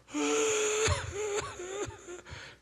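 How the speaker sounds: high-pitched imitated sobbing wail; husband's crying. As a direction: mimic a man breaking into sobs. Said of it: "ele começou a chorar". (choro agudo imitado)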